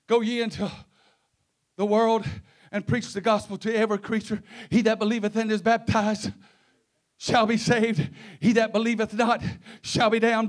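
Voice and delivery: measured, declaimed Bible verse; scripture recitation. Real, not acted. Preacher quoting the gospel to his congregation, measured recitation. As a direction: recite the verse in deliberate phrases.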